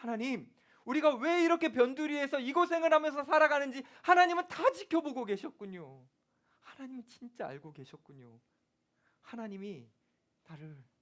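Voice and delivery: play-acted, tearful, moved, loud, high weeping. A speaker imagines the shepherds speaking to God after meeting baby Jesus, acting out a tearful prayer. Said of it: "막 울면서 하나님 앞에 이렇게 말했을 것 같아요".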